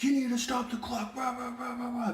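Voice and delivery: very high, mocking player voice; mock the jeering player up high. Player taunting the referee in a high mocking voice. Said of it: "he starts clapping at me like".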